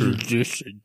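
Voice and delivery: Ingested slurred into mushy sh sounds; mock-drunk slur. Friend jokes about failing a drink test, slurred Ingested. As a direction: badly garble Ingested as if drunk.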